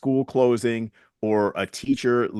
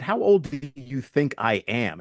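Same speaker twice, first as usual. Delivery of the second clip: slow, pitched-up retold comeback; challenging retort; 4 semitones higher than usual. Answering senior citizens who said they're older, mildly challenging. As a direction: draw out the question as a mild challenge.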